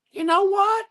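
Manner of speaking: put-on high squeaky voice of an old lady lawyer; Jimmy Neutron's teacher. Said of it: "She sounds just like that?".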